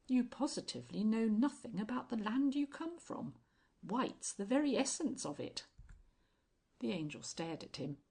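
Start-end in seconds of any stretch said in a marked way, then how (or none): 0.1-5.7 altered tone. A narrator's reading. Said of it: "suddenly altering his tone".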